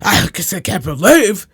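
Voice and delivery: slow, put-on older English lady; older English accent. Telling a friend about an older English lady, in her accent. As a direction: drawl it like an old English lady. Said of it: "What accent is that?".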